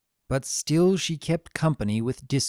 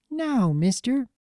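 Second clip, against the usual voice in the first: stern; 10 semitones higher, slower than usual. Acted. Scolding after his dodge.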